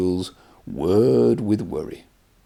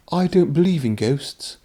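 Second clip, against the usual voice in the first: snorted; 7 semitones higher than usual. Acted. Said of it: "Henry snorted".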